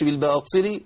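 faulty بالباطل, ط thickened too much; over-heavy ta. Shown as a demonstration. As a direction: overdo the emphatic ط in بالباطل. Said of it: "أو تفخيمها زيادة".

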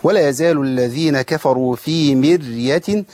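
slow, measured tajweed recitation; careful teaching recitation; Quran recitation. Shown as a demonstration. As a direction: recite with drawn-out vowels. Teacher recites verse in lesson.

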